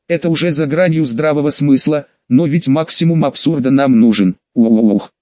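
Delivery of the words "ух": shout. Acted. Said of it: "закричал я".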